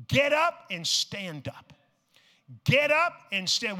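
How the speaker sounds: preaching repeat. Real, not acted. Preacher repeating for the crowd to resonate, rising. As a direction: make it resonate in the room. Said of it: "I'm gonna say it again".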